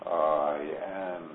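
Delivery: "I am." with the A of "am" stretched and stressed; emphasis on the A. Shown as a demonstration. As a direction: open up the A of "am". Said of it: "The emphasis on the A".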